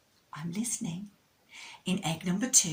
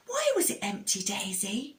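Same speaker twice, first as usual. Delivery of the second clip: Moon's voice; 2 semitones higher than usual. Acted. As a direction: ask it like a wondering child. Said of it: "said Moon".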